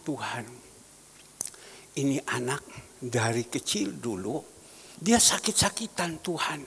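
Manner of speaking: hushed, earnest prayer voice. Acted. Prays aloud for the youth.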